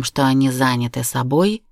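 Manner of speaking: plain reading voice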